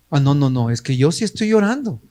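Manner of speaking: imitating an excuse-maker, fast and dismissive; hammed-up pretext; lightly mocking the absent member's excuse. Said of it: "simplemente el pretexto".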